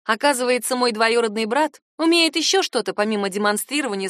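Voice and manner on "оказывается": ordinary delivery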